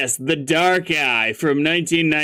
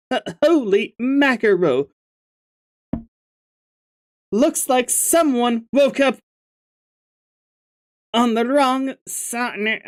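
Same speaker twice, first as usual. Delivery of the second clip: silly troll voice, slightly higher; stupid voice; 10 semitones higher than usual. Acted. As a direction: ham up a goofy troll voice. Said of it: "giving you a stupid voice before".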